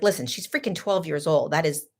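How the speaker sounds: sarcastic. Retold or imitated. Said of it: "I was sarcastic".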